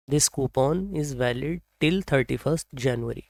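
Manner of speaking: very slow, with a lift on This; slow example sentence. Shown as a demonstration. Teacher reading an example sentence slowly to the class. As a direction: read it out word by word. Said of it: "repeats example sentence slowly".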